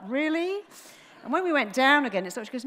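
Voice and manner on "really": high, loud incredulous question; imitated disbelief. Daughter reacting to mother loving the ride, mock disbelief. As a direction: pitch it up like a doubting child.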